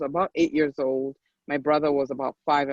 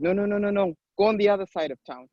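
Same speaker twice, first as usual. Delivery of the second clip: higher-pitched, insistent refusal; mock-insistent, raised voice; retold dismissal; 5 semitones higher, faster than usual. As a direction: imitate a guard turning someone away. Retold guard sending family away.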